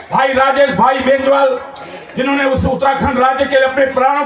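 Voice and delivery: earnest appeal to a crowd; stirring speech with emphatic pauses; public rally oratory. Real, not acted. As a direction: declaim in rhythmic phrases with rising ends.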